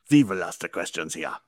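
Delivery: imitating a German-accented punchline; playful German-accent copy; mock German accent. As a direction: echo the joke in a light German accent. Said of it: "the Hitler knock knock joke".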